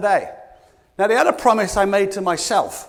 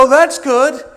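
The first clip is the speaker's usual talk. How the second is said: loud, hollow "that's good"; mock praise; 4 semitones higher, 7 dB louder, slower than usual. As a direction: fake enthusiasm from the staff.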